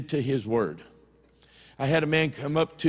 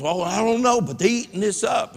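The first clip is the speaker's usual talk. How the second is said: mock defensive; 6 semitones higher, 3 dB louder than usual. Pastor brushes it off.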